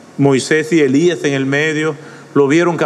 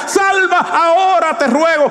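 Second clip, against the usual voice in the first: much higher, shouted plea; desperate cry; 12 semitones higher than usual. Shown as a demonstration. Preacher showing the crowd's desperate cry, shouting. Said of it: "es un grito de desesperación".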